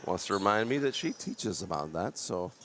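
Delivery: stuffy congested voice, blocked nose. Real, not acted. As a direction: speak as if your nose is stuffed up. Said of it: "Yes, I'm a little congested".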